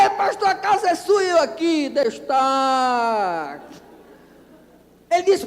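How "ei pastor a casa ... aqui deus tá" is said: joyful shout. Retold or imitated. Pastor celebrating the signed house contract, joyful shout.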